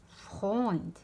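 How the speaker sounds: put-on فخويند with "oy" as in boy; oi diphthong. Shown as a demonstration. Teacher contrasts two diphthongs, فخويند with clear oi. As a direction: say فخويند with o gliding into i. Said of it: "يتقرا اوي".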